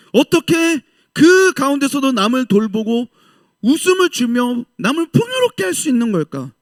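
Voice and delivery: high, wondering voice of the world's people; puzzled onlookers. Retold or imitated. Preacher voicing worldly people wondering about a Christian, high and puzzled. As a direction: voice the world puzzling over the believer, pitched high. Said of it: "세상 사람들이 봤을 때".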